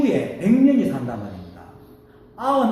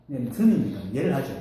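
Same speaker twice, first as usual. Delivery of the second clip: ordinary talk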